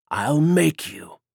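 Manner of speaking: slow, menacing threat; a vampire boss threatening his captive. Acted. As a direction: lean in and promise pain. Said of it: "Keegan threatened".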